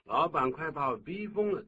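hammed-up exasperation; exasperated complaint. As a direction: play a worker at the end of their rope. Acting out the employee's complaint again.

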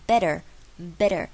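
BETTER with the tt as a d, "bedder"; T改成D. Shown as a demonstration. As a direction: flap the middle of "better" lightly. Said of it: "把T改成D的声音". (better的T念成D)

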